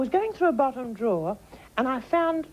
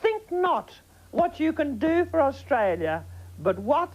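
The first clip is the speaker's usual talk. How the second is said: mock grand speech; 3 semitones higher than usual. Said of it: "what Gerald Ford said".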